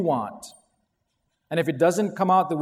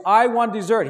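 put-on whiny child; 5 semitones higher, 7 dB louder than usual. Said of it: "he goes".

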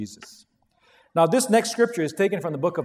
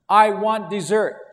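put-on whiny child; 3 semitones higher, 6 dB louder, slower than usual. Child demanding dessert.

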